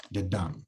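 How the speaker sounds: the soft, dum hit hard; weak the then strong dum; da-DUM rhythm; stress on dum. Shown as a demonstration. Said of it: "So the is unstressed, dum, stressed".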